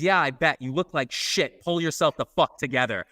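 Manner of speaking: imitating Sue's curt telling-off; withering scolding. Sue scolds hungover Richard before walking away, mock withering. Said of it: "looks at him and she goes".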